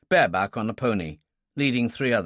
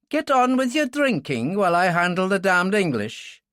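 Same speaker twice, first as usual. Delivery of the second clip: speaking Gaelic to the room; 8 semitones higher, 3 dB louder than usual. Acted. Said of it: "she told them in Gaelic".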